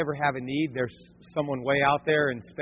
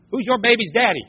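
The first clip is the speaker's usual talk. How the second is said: mock talk show; 7 semitones higher, 6 dB louder than usual.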